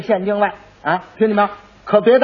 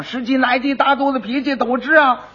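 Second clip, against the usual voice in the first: higher sing-song cry of 十几来几大肚子脾气 at normal volume; lightly voiced hawker's call; 6 semitones higher than usual. Quack calls out in front of the butcher's shop. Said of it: "他这一吆喝".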